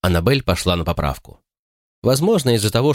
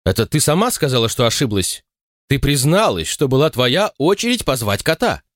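heated accusation; 6 semitones higher than usual. A narrator's reading. Sisters quarrelling.

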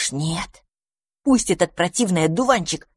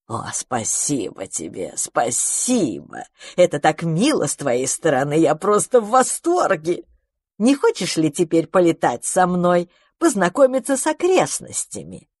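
gushing magpie voice. Acted. Magpie thanks and invites him.

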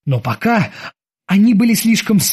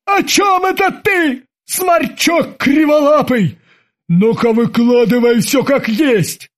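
very high, slow shout; furious sidekick demanding the truth; shrill demand; 8 semitones higher, slower than usual. A narrator's reading. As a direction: bark up at the little captain. Babs demands angrily.

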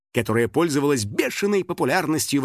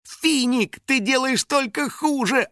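high exasperated brush-off; 12 semitones higher, slower than usual. A narrator's reading. Girl brushes off the spirit's help, exasperated. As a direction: wave him away. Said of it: "отмахнулась Кристина".

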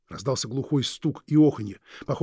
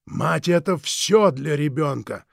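slow, silky, threatening drawl; menacing villain; 3 semitones higher, 5 dB louder, slower than usual. Acted. Villain Krieg menacing the Forbes couple, slow and silky. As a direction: savour each word like a veiled threat.

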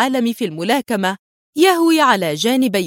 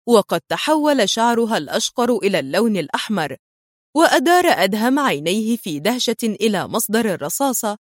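ordinary delivery

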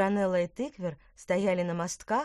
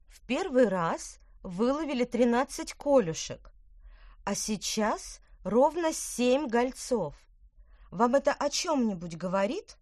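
put-on girl's voice; 6 semitones higher, 4 dB louder than usual. Petronella voiced higher.

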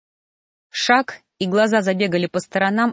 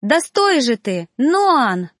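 louder, higher call to stop; 5 semitones higher, 5 dB louder, much slower than usual. A narrator's reading. Girl chasing the teacher, yelling at him to stop.

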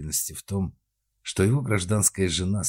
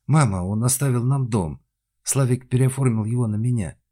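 louder, higher eager telling; excited news; 5 semitones higher, 6 dB louder than usual. A narrator's reading. Daughter tells mother about the house, excited. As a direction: burst out with good news.

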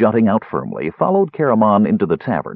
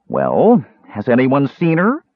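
irritable; 5 semitones higher, slower than usual. Acted. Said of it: "Tass asked irritably".

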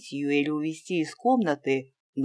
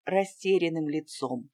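ordinary delivery, nothing marked

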